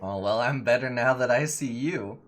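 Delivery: flirty. Acted. Belarius flirts.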